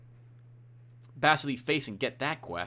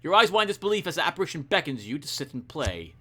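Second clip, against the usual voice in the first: measured, suspenseful reading; story narration; 2 semitones higher, 3 dB louder than usual. A narrator's reading. Revealing the specter across the chessboard, story narration. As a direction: pause before the reveal. Reads the game's story text.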